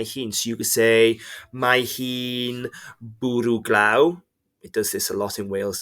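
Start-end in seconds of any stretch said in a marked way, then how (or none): 1.5-4.2 slow demo. Shown as a demonstration. Teacher demos answer slowly.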